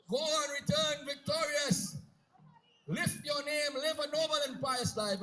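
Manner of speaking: rousing send-off. Acted. Mother sends son off with blessing.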